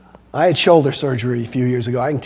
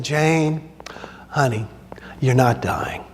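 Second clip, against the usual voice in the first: reassuring doctor; 3 semitones lower, 6 dB quieter, slower than usual. Retold or imitated. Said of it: "the doctor said".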